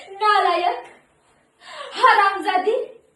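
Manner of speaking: acted outburst, each insult punched loud; चिडून शिवीगाळ. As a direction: hurl the insults with sudden force. Hurling insults in monologue. (रागाने शिव्या देत)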